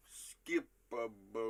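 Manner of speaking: slow quoted line. Shown as a demonstration. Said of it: "I'm gonna give it to you guys one more time".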